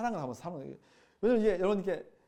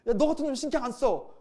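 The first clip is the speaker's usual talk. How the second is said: louder, higher contemptuous brush-off; dismissive scorn; 7 semitones higher, 6 dB louder than usual. Retold or imitated. Cutting off a repeat sinner, mock scornful. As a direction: throw the person away with scorn. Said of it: "막 이렇게 우리가 얘기하는 거죠".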